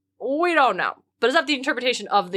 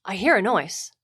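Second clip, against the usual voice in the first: Xanthias, the sly slave, teasing. Acted. Reading Xanthias to the frightened Dionysus, hammed-up and excited. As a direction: play the servant spooking his master for fun.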